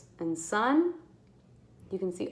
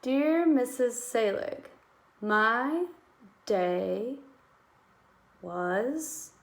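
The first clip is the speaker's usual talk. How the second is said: slow, stretched dictation reading; teacher sounding out a letter line; 2 semitones higher, much slower than usual. Shown as a demonstration. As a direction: read each word out slowly for writing. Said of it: "There's a Y at the end".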